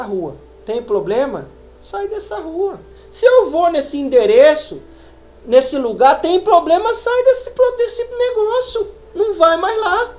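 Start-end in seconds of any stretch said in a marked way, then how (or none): 1.8-10.1 urgent warning. Acted. Voicing the Spirit warning.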